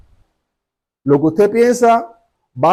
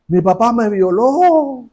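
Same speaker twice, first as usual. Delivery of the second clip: slow, higher-pitched retold outburst; angry outburst; 5 semitones higher, much slower than usual. Young woman telling the preacher about her father, retold angry outburst. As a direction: imitate an anguished accusation, stretched out. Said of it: "el enojo que traía así".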